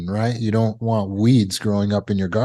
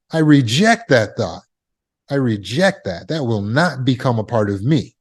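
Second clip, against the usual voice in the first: measured, resolute refusal with falling endings; firm admonishing. Shown as a demonstration. Speaker admonishing the subconscious mind, firm and final. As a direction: lay down the law to your own mind. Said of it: "I'm admonishing the subconscious mind".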